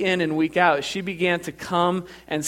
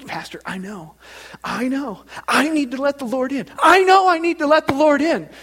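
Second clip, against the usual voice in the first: Teresa impression; 9 semitones higher than usual. Churchgoer answering pastor's repeated asking, building impression. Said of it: "That's exactly how she talks".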